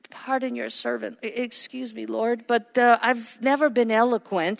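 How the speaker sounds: mock-timid, hushed excuse-making; acted timid. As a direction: plead meekly with halting starts. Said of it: "He was very timid and insecure".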